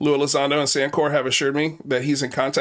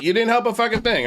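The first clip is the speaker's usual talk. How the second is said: angry; 9 semitones higher, faster than usual. Real, not acted. Host snaps at troll caller.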